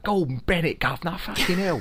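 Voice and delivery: high-pitched hammed-up cockney; old-time London accent. Podcaster mocking old London speech, exaggerated cockney cry. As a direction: play a flat-capped cockney of long ago. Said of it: "reverting back to that kind of".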